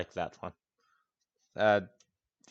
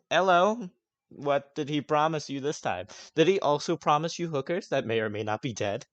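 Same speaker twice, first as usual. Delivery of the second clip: mocking NPC; 6 semitones higher, 4 dB louder than usual. NPC greets the party mockingly.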